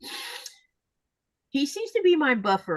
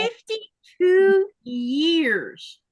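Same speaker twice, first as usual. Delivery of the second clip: amazed; 8 semitones higher, 4 dB louder, much slower than usual. Real, not acted. Amazed at a long marriage.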